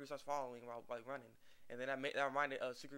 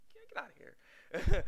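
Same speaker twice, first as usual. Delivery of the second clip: high, loud and drawn out, shooing him away; mock shout; 11 dB louder, slower than usual. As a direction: stretch it out and chase him off, loudly. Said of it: "I'm like".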